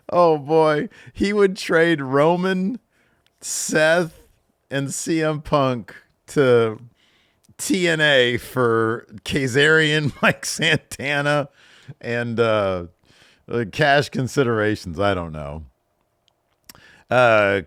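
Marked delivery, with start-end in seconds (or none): 0.1-11.5 mock announcer. Mock trade announcement, slow and high.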